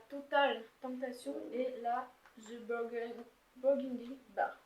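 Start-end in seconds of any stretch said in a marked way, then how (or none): 2.4-4.6 slow, halting English with a French accent. Real, not acted. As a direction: stumble slowly through English in a French accent. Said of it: "Désolée pour mon accent anglais". (anglais hésitant à l'accent français)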